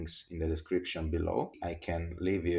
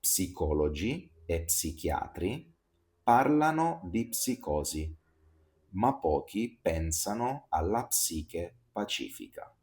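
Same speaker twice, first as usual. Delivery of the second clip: tongue twister repeated. Shown as a demonstration. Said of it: "I repeat".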